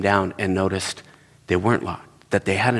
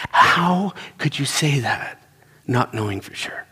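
retold livid accusation; 4 semitones higher than usual. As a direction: act out an appalled accusation, stretching the words. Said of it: "was livid with me".

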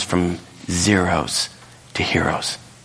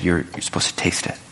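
whispered aside; 3 semitones lower than usual. Retold or imitated. Servants whisper to the master.

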